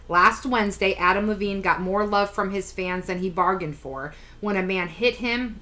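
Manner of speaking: reading an article aloud; steady read-aloud delivery; news article read. Acted. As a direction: read it out evenly, like a news item.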